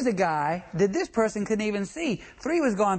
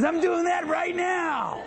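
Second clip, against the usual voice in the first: Pete's slow retort; 9 semitones higher, slower than usual. Retold or imitated. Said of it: "And he says".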